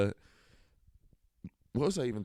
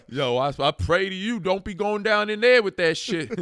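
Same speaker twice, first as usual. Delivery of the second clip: high, raised-voice heckle; yelling moviegoer; 8 semitones higher, 6 dB louder than usual. Retold or imitated. Moviegoer warning the characters on screen, high hollering. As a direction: call out a worked-up warning to the screen. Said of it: "a guy behind me in the movie theater yelled".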